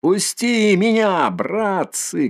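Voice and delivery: high, slow, eager shout to the lads. Acted. A lad in the crowd begging to ride, shouting high. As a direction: beg to be let aboard, calling out high. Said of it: "кричит один разлокомившийся парень".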